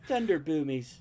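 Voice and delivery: put-on high-pitched British accent, loud and squeaky; a muscle man squeaking in a British accent. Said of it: "in a British accent and a super high-pitched voice".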